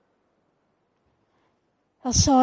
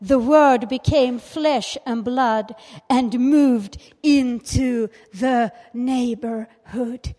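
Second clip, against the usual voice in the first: slow reading; 7 dB louder, slower than usual. Acted. Reads English Bible quote.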